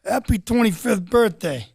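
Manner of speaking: lightly voiced Irish dad, slowed; a hint of his old Irish father reading the card; retelling his father's birthday card in a light dad voice; imitating dad. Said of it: "this is what he sounded like".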